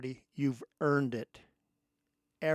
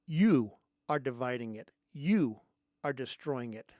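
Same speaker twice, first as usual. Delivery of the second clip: loud; 6 dB louder than usual. Real, not acted. Angry rant at Democrats.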